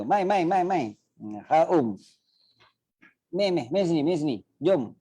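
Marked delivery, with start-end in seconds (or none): 0.0-0.8 high loud calling; calling out come come. Shown as a demonstration. 3.3-4.9 high calling out to come here; high call to come over; calling someone over. Shown as a demonstration. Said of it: "macam tu lah kan".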